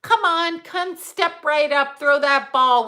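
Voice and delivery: mocking the store as a carnival huckster; mock carnival barker. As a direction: pitch it like a circus barker. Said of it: "We're in the circus".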